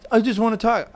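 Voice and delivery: high, whiny mimic of her; mock pleading ex. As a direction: mimic her begging to talk.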